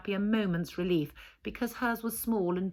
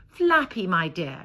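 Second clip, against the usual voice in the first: a hammed-up warm welcome, pitched up; Hedda's gushing greeting; 5 dB louder than usual. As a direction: gush over an old friend.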